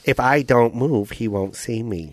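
put-on slow, heavier Asian-accented raccoon. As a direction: lean harder into the accent, slowly. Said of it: "Do it more Asian".

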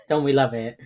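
dry mock praise; sarcastic rhetorical question. Real, not acted. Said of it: "That's sarcasm".

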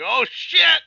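high, loud hyped exclamation; whooping amazed reaction, acted out; retold excited outburst. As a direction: relive the thrill with a yell. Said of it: "I was just like".

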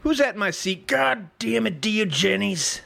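high-pitched mock scolding; exasperated Plato. Teacher finds his seat soiled, high comic exasperation. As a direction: scold him high, rushing at the end.

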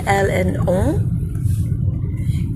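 "elle, and on" drawn out very slowly; over enunciating. Shown as a demonstration. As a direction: spell out "elle, and on" word by word. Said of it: "teaching the pronouns".

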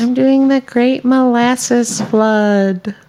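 slow, drawn-out announcement; dramatic title reveal. Acted. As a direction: unveil the title slowly for effect. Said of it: "I'm giving you a title this week".

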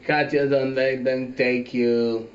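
unenthusiastic. Acted. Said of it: "That didn't sound very enthusiastic".

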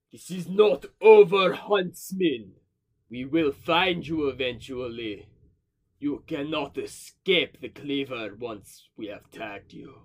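slow villain's threat, opening loud; menacing sending-stone voice. Acted. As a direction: warn the prey with slow, deliberate menace. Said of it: "You then hear over the sending stone".

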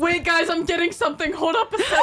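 high, laughing mock psychic voice; mock medium. Teasing a storyteller by playing a ghost-sensing medium, laughing. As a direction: play a fake medium while cracking up. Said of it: "I'm like".

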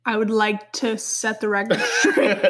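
starts composed, cracks up at the end; breaking into laughter. Real, not acted. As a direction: try to state it formally and burst out laughing. Breaks up while defending herself.

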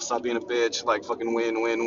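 ordinary delivery

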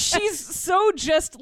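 stretching out so just slowly; slow drawn-out emphasis. Real, not acted. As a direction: draw the words out lazily.

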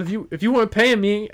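high, quick mock Southern grumbling; imitated Southern indignation; Southern drawl. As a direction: mimic an irate Southern driver. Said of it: "The Southern drawl was just out".

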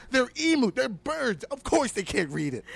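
loud, high, disbelieving outburst; can't believe what he's hearing; incredulous rant. Real, not acted. Podcaster ranting at hotel owner, loud and incredulous.

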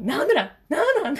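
put-on high, loud whiny child demanding answers; pestering son. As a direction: imitate the kid nagging nonstop. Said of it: "すごいんですよ".

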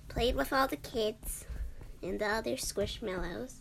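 whispering the story; hushed storytelling. Acted. Whispered narration.

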